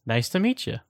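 high-pitched little creature voice; high squeaky greeting. Acted.

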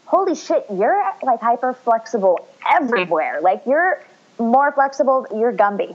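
high-pitched imitated amazement; amazed. Retelling doctor discovering her hyperflexibility, imitated high amazement. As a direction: start high, as if astonished by the discovery.

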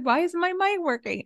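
high panicky mock question; high, fussing over the mic. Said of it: "He's like".

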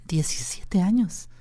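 female voice held; man doing a woman's voice. Shown as a demonstration. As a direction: speak as a woman.

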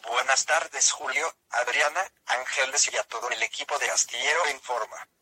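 text-to-speech voice, even and mechanical; synthesized voice. Real, not acted. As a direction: speak like a computer speech synthesizer. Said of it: "esta es una voz sintetizada".

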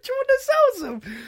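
quick, very high mock-eager question; high, hurried impression; Lucianus. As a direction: imitate an eager friend. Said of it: "Lucianus turns around and goes".

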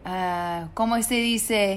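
groping for a word in Spanish; affected Spanish accent, searching; put-on Spanish. Pretending to forget the English word, put-on Spanish accent. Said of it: "coming back to school and being".

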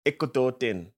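put-on lightly accented copy of Punjabi counting; imitated Punjabi accent. Copying the co-host's Punjabi numbers, a hint of Punjabi accent. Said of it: "You did an accent".

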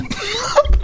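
high-pitched giggle burst; short high laugh. Real, not acted. Friend hears another variation coming, laughing. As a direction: let out a quick, high laugh. Laughing before new cake question.

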